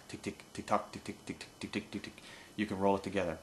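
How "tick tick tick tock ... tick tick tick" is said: "tick" and "tock" whispered soft and rhythmic; whispered feed chuckle. Shown as a demonstration. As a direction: whisper a ticking duck chuckle. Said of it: "Once you get that tick tock".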